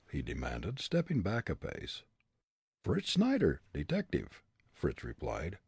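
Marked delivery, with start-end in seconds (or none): 2.8-4.4 put-on comic German accent, raised pitch; thick stage German accent. A narrator's reading. Fritz voiced.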